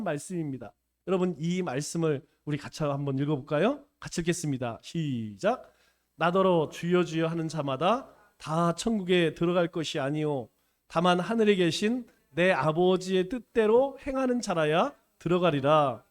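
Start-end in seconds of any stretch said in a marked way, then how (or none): 6.2-16.0 scripture reading. Acted. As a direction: read the verse aloud with the congregation. Leads congregation reading scripture. (회중과 함께 성경을 엄숙하게 낭독)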